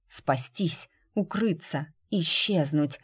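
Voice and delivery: plain reading voice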